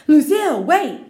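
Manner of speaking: high, loud call, then fast; boy chasing after Lucille; excited shout. Acted. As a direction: call after her eagerly. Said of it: "he shouted".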